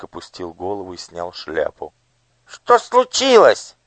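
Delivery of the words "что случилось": much higher, louder, slow squeak; squeaky minister. A narrator's reading. Minister squeaks at the overseer. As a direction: squeak it out like a nasty little vulture-faced man. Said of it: "пискнул человек с лицом коршуна".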